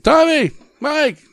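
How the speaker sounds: high, drawn-out fan yell; retold scream. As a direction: imitate screaming out to someone, stretched and high. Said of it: "just screaming at him like".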